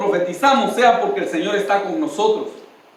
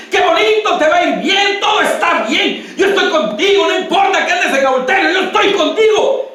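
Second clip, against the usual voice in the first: high, loud, sugary imitation of a flattering prophet; mock sweet prophecy voice, much higher; mocking false prophet; 7 semitones higher, 4 dB louder than usual. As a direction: parody the false comfort with a laugh. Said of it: "la profecía solo es".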